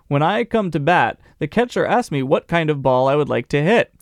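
put-on Southern storyteller; Southern accent. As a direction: quote read with a creeping Southern twang. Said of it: "he's acquiring a Southern accent".

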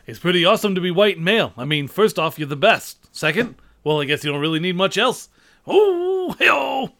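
fast brash comic read; Rodney Dangerfield. Acted. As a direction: rattle it off Dangerfield style. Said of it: "I don't know if that works with Rodney Dangerfield".

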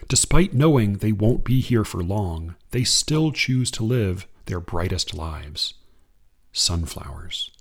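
slow, measured poetry recital; unhurried reading of verse; poem reading. Acted. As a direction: read it like a poem to an audience. Reads a Kaur poem.

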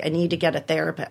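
quick, businesslike retold request; matter-of-fact. Patient asking a friend in psychiatry for help, matter-of-fact. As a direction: state it briskly, without emotion. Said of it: "matter of fact".

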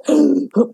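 a sharp mock panic gasp; panicked gasp. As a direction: gasp as if winded by fear. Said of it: "I started really panicking".

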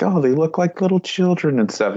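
high-pitched, imitated fondness; mock cooing. Retelling the crew seeing tiny aliens, cooing.

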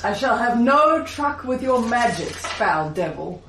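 archaic paladin. Acted. Player acts archaic paladin.

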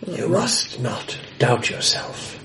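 put-on slow, calm old hermit voice; gruff mountain man. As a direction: speak slowly, like a strange old hermit. Hermit counsels the bard.

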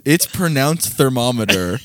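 slow, deliberate "It's pronounced thermometer"; slow quoted line. Retold or imitated. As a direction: savor each word of "thermometer".

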